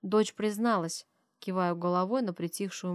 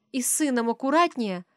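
loud call after someone leaving; calling after him; 6 semitones higher, 7 dB louder than usual. Acted. Wife calls a warning after her departing husband, loudly. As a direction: shout a warning at his back. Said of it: "кричит она ему вслед".

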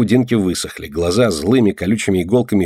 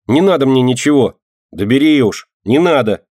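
raised, loud pushing away; loud refusal; 6 semitones higher, 4 dB louder than usual. A narrator's reading. Girl loudly refuses the boy's gift. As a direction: refuse it outright.

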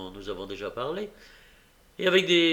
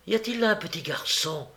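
higher, lightly voiced tearful young woman; 7 semitones higher than usual. A narrator's reading. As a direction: plead through the door, a touch tearful. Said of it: "d'un ton larmoyant".

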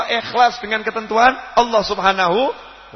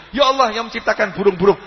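prayer in the usual pitch, evenly paced; proper prayer; 2 semitones higher than usual. Shown as a demonstration. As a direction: demonstrate a respectful supplication. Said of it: "Anda boleh berdoa".

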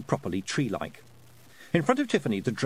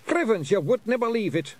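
higher, louder fed-up wee clansman; exasperated Scots pixie; 11 semitones higher, 4 dB louder than usual. Acted. Rob Anybody despairing at Willie, higher exasperated Scots. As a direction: roll your eyes at a daft pal.

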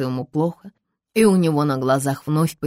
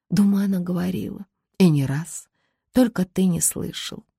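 usual speaking voice

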